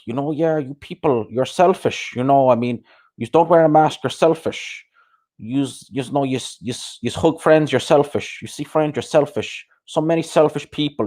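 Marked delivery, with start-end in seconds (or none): 0.3-4.9 mock preachy Limerick guy, higher; lightly voiced whiny lecturer; imitating him. Host mocking a YouTuber he hates, higher mock whine. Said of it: "he talks like". 5.4-11.1 mock preachy Limerick guy, higher; lightly voiced whiny lecturer; imitating him. Host mocking a YouTuber he hates, higher mock whine. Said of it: "He talks like that".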